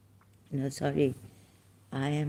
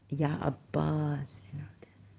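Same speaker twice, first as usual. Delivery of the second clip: whispered; 5 dB quieter than usual. Retold or imitated. Mimicking voices he hears.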